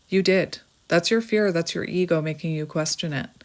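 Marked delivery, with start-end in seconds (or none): 0.1-0.6 softer repeat. Shown as a demonstration. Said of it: "Did I do the right thing?".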